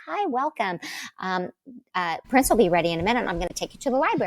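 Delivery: bright, quick welcoming hostess; chirpy, rushed butler-style greeting; retelling the house staff's hurried welcome; greeter's voice. Retold or imitated. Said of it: "She's like".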